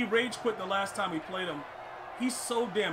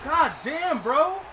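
higher and louder curse; angry exclamation; 6 semitones higher, 6 dB louder, much slower than usual. Real, not acted. Gamer cursing at the game, loud frustrated outburst. Gamer reacting to big play.

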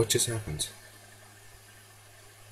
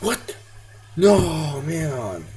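high shocked cry; 7 semitones higher, 4 dB louder, much slower than usual. Real, not acted. Surprised by sudden death.

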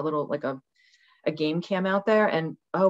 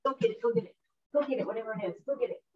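urging the dogs; 4 semitones higher, 8 dB quieter, much faster than usual. Real, not acted. Urging her dogs outside.

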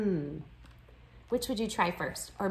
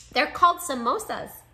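higher, louder smiling voice; big smile; 6 semitones higher, 6 dB louder than usual. A narrator's reading. Nimmy naming her family's treat to classmates, smiling. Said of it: "said with a big smile".

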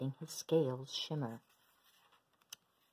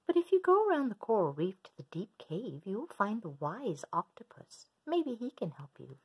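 starfish voice; 5 semitones higher, 3 dB louder than usual. Acted. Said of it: "said the starfish".

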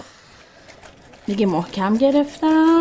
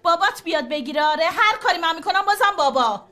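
raised, worn-out mother's voice; pitched up in weary exasperation; exasperated scolding; 3 semitones higher than usual. Acted. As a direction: lose patience with a nagging child. Worn-out mother scolding her child.

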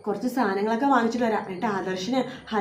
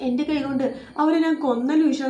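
lightly hammed-up frantic wail, higher; 4 semitones higher than usual. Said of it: "ഒരു ഭ്രാന്ത് പിടിച്ച പോലെയൊക്കെ".

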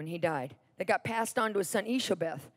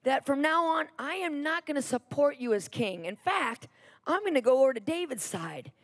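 mildly acted anger; 4 semitones higher than usual. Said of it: "He gets so mad".

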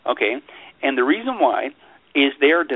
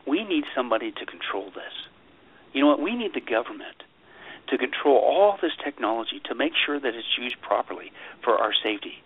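dry sarcasm, mocking the official line; sarcastic; 4 dB quieter than usual. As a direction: say it sarcastically, like you don't buy a word. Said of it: "I'm using sarcasm to make a point".

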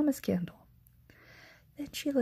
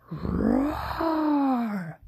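loud, higher hammed-up roar; bear roar; 6 semitones higher, 4 dB louder than usual. Old Bear answers Baba Braina, loud roar.

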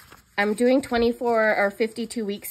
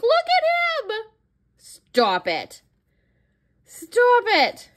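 cutesy squeal; 14 semitones higher, 4 dB louder, much slower than usual. Real, not acted. Gushing over cute die cuts.

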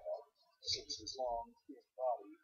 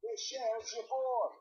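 higher and louder, right in his face; shrieked; 9 semitones higher, 5 dB louder than usual. A narrator's reading. Impatient stranger shrieks at the dazed actor, loud. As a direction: shriek to snap him out of it. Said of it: "shrieked almost in his face".

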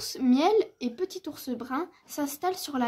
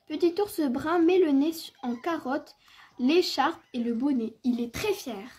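measured, articulate storytelling with lively emphasis; children's story narration. A narrator's reading. Narrator telling of Petit ours brun's snowy morning, story-reading voice. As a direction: read it aloud for small children.

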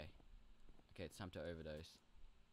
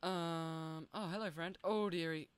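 put-on high, sugary old-lady greeting, a bit louder; sweet old crone voice; 9 semitones higher, 6 dB louder, slower than usual. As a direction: coo "dearie" like a fairy-tale witch. Greets a friend, creepy sweet.

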